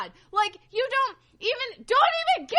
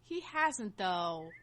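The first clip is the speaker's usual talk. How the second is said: whispered aside; 14 semitones lower, 10 dB quieter, much slower than usual. Real, not acted. Quiet rebuttal aside.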